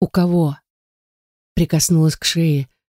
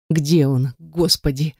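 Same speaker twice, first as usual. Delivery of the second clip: ordinary delivery, nothing marked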